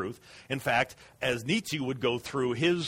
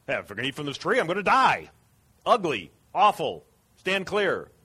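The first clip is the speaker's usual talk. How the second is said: mildly louder, slightly higher disgusted push-away; a hint of Eve recoiling; 4 semitones higher, 4 dB louder than usual. Eve warning herself off the tree, lightly voiced. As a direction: wave the tree off, mildly repelled. Eve's earlier fearful attitude voiced.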